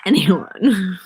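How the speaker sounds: breathy secretive whisper on the last word; hushed conspiratorial whisper. Real, not acted. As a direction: drop to a whisper as if sharing a secret. Confessing a secret to viewers.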